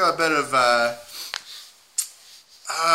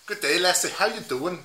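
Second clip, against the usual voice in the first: put-on unconvincing Scottish accent; Scottish accent attempt. Player greeting a lassie, weak Scottish accent. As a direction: have a poor go at a Scottish accent.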